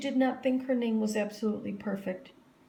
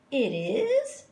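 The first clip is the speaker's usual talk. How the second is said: put-on surprised girl; 5 semitones higher, 5 dB louder than usual. A narrator's reading. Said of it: "said Jo".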